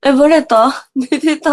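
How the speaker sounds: groggy voice, just woke up; sleepy voice from bed. Real, not acted. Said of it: "声ひどいね".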